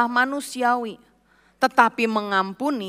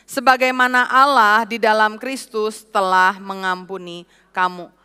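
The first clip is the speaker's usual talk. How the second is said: reading aloud. Acted. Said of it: "Kita baca secara nyaring".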